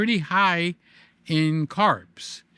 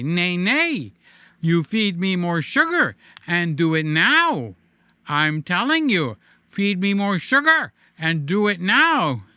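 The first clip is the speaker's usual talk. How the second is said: John Pinette impression; 3 dB louder than usual. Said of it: "as our friend John Pinette would say".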